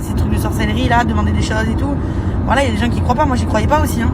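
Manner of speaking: muffled through a face mask. Real, not acted. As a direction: speak muffled behind a mask. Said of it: "je parle avec le masque".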